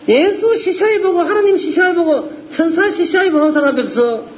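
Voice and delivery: ordinary talk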